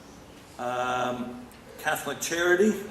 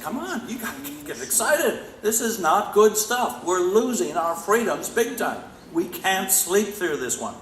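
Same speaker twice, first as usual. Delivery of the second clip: much higher and louder, urging them awake; rallying students; 8 semitones higher, 3 dB louder than usual. Retold or imitated. Teacher to his students, high urgent rallying. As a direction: shake sleepy students into caring. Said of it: "I gotta do this all week with my students. I say".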